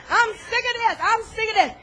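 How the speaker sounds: hammed-up angry rant. Ranting over shoes at home.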